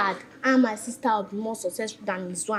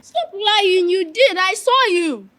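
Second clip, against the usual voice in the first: accusing outburst; 7 semitones higher, slower than usual. Acted. Child accuses brother as witness.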